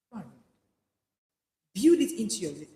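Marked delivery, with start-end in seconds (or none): 0.1-0.4 low soft echo. Shown as a demonstration. Preacher echoing the command, low and soft. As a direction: Go and read dropped low and soft. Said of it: "repeated command".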